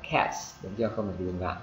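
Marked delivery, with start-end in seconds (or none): 0.1-0.6 "cats" with a clearly released "ts"; softer "cats" with an audible hiss ending; sounded final S. Shown as a demonstration. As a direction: push the plural S out on "cats". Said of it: "bắt buộc anh chị phải phát ra".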